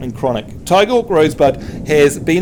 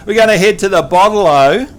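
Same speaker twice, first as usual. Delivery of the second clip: Aussie accent; 4 dB louder than usual. Shown as a demonstration. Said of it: "honorary Aussie".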